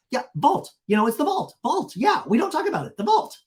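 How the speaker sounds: high-pitched mock insistence; hammed-up, punchy repeats with rising ends; Vicky. Vicky reminding Heather of the vault, high mock insistence. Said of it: "And Vicky goes".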